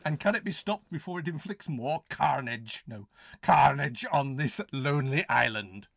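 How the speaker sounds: hammed-up suspense narration; melodramatic blurb reading. Finishing the blurb for the co-host, mock ominous. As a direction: draw out the ominous question.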